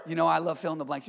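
said with a laugh and a grin, quick; grinning over his love of blanks; smiling. Real, not acted. Pastor grins at the congregation about fill-in-the-blank notes, laughing. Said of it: "You notice I smiled".

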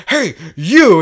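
loud stern cop call; mock cop shout. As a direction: bark it like a cop. Voicing fake cop.

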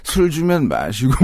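put-on slow, slurred drunk voice. Shown as a demonstration. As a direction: slur it like you've had a few. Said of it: "술 취한 목소리로 해야 됩니다".

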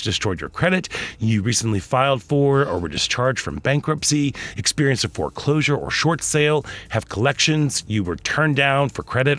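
brisk, polished sponsor read; radio ad read. Acted. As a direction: sell it like a live radio spot. Reads a sponsor ad.

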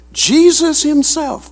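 slow, emphatic "Jesus himself". Shown as a demonstration. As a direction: lean hard on "Jesus", then slow down on "himself". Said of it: "very emphatic in the text".

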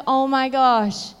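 slow, drawn-out oh my gosh; slow amazement. Retold or imitated. Mother overwhelmed by her son's story, slow and amazed. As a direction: let the wonder stretch each word. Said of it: "And I was like".

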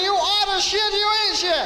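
stern waiter scolding a customer. Retold or imitated.

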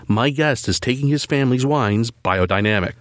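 measured, polished host read; scripted podcast intro. Acted. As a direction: tease the episode like a radio presenter. Reads the episode teaser.

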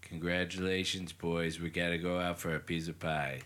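low-pitched, lightly voiced politician impression; low, understated caller impression; Donald Trump. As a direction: play a politician phoning in good news. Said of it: "Donald Trump calls in".

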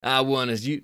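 first try at Billy. Shown as a demonstration. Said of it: "no, he's not from down south".

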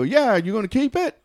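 a touch of a Southern hunter; hunter accent. Retold or imitated. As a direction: mimic the eager hunter asking. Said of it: "They had some kind of accent".

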